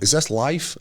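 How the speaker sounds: lightly mock the high friend asking again; retelling the stoned friend's question a second time; dazed stoner repeat. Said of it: "And he went".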